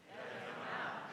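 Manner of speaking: barely breathed, unvoiced; whisper. Cold congregation answering the pastor, faint whisper. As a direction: mumble it like a frozen crowd. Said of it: "And we would say".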